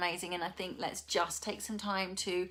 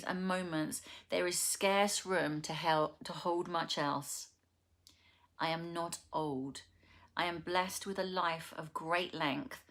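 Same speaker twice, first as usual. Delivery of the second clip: poem reading. Acted. Vlogger reads poem to her viewers, measured recital. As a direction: read each line as a gentle affirmation.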